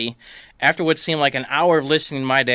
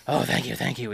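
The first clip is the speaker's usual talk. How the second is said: weak thanks; 3 semitones lower, 6 dB quieter than usual. Retold or imitated. Dad grateful, weak in pain.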